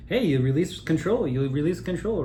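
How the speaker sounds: loud mock call. Mock toast to releasing control.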